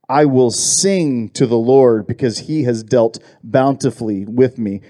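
unhurried psalm read to a congregation; scripture reading. Acted. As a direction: read the verse out with weight on each phrase. Rereads the psalm verse aloud.

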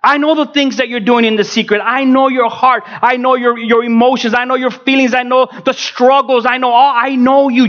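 preaching as God. Acted. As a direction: press each phrase home as God's word. Preacher voicing God to him.

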